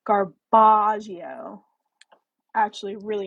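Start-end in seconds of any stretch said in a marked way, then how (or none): 0.1-1.6 drawn-out, louder go at a British accent; British accent attempt. Shown as a demonstration. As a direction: stretch it out in a clumsy British accent. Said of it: "British accent for the next live".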